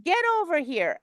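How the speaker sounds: high, brisk call to the dog; sharp recall. Shown as a demonstration. Coach demonstrating how to call the dog back, high brisk call. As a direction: snap the dog's attention back. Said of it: "You need to be like".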